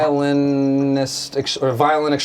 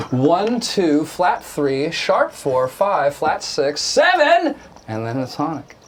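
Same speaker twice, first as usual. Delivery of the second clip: quicker repeat; slower than usual. Shown as a demonstration. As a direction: rattle off the scale degrees, peaking on seven. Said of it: "say that fast again".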